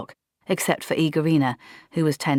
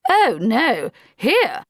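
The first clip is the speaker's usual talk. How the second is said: higher, louder alarmed gasp; terrified; 9 semitones higher, 6 dB louder, much slower than usual. A narrator's reading. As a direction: panic at the thought. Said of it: "Blouse looked terrified".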